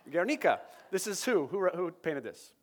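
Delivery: put-on Guernica in a Spanish accent, gair-NEE-ka; imitated Spanish accent. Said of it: "good, good, uh, accent".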